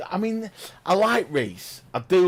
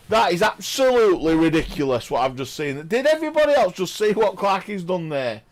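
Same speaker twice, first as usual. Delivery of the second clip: excited disbelief; 3 semitones higher, 5 dB louder than usual. Real, not acted. Commentator reacting to the fluke.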